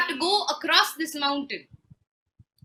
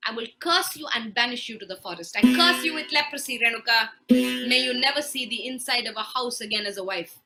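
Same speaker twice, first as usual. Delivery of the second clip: louder furious cursing; angry curse; 7 dB louder than usual. Acted. Husband cursing and banishing his wife, angrily. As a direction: hurl the curse at her. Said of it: "He loses it".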